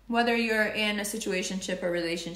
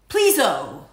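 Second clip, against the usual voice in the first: louder playful Please-o, drawn-out o; silly please-o; 8 dB louder than usual. Real, not acted. Being annoying on purpose with a silly louder please-o. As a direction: chirp Please-o as a joke. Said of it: "I'm putting an O after everything".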